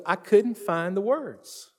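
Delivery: slow, halting retelling of his words; slowed, helpless quote. Retold or imitated. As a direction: let each word drag out, lost for words. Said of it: "the only words he had was".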